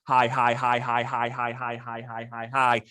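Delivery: monotone string of rapid, low greetings; repeated greeting. Acted. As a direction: rattle off identical hellos without variation. Acts greeting everyone in a pub.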